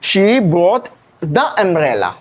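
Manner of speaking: She brought the umbrella, each word drawn out slowly; slow example sentence. Shown as a demonstration. Teacher showing the special umbrella sentence, slow and deliberate. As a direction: read the example slowly so every word lands. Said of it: "तो आप क्या बोलते हैं?".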